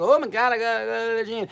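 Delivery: high, loud put-on frantic voice; mock desperation. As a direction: mimic someone desperate to get out, high and loud. Mocking people desperate to go out.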